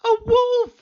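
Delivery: high, loud shout of alarm; high, loud cry of wolf. Acted. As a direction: yell it to rouse the village. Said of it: "he cried".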